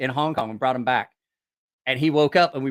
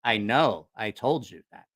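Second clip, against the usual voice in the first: low, simple-man reply; Paulo; 5 semitones lower than usual. Retold or imitated. Paulo reminding his shipmate about the island, low earnest imitation. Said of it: "He goes".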